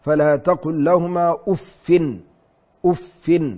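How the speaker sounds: أف read as uffin, doubled fa with kasra and nunation; أف with kasra and tanwin. Shown as a demonstration. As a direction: end أف on uffin. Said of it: "بكسر الفاء مشددة منونة".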